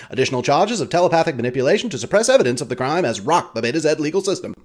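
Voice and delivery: lightly voiced old-time radio newsman, fast start; Walter Winchell. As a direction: rattle off the gossip like a 1930s broadcaster. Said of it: "a hologram that resembles Walter Winchell".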